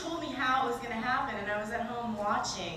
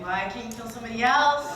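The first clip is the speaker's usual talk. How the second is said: retold begging; 7 dB louder than usual. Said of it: "I cried and I begged".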